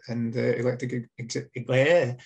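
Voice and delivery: stumbling over the word; tripping on the words, restarting; tongue-tied. Real, not acted. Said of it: "already tongue-tied".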